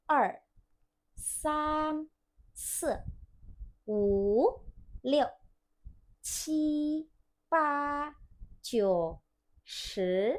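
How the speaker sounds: teacher leading a count, each tone exaggerated; counting in Mandarin. Shown as a demonstration. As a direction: call out each number crisply for the class to repeat. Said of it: "Coba ya kita dari awal".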